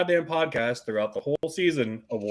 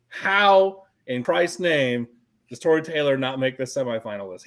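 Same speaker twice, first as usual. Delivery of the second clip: outraged; 3 dB louder than usual. Real, not acted. Outraged rhetorical question.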